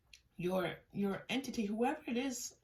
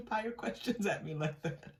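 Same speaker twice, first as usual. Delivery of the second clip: laughing. Real, not acted. Laughing at imagined questioner.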